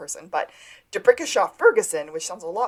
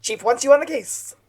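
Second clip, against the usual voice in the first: raised, louder mock yell; retold scream; 6 semitones higher, 6 dB louder than usual. Juliet calling the men to a bank robbery, mock screaming. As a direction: call it out urgently, imitating a scream. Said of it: "And then Juliet screams".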